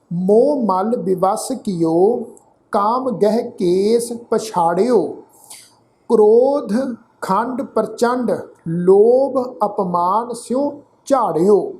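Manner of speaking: measured Gurbani reading, phrase by phrase; deliberate teaching recitation of sacred verse; scripture recitation. Shown as a demonstration. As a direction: recite with drawn-out vowels and pauses between phrases.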